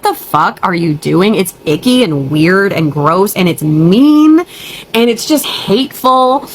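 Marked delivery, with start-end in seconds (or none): 3.4-6.5 near tears. Real, not acted. Upset rant about cheating husband.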